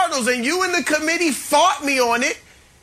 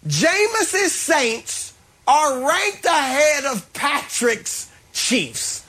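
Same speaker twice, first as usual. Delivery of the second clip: slow savoring; much slower than usual. Real, not acted. Savoring vindication slowly.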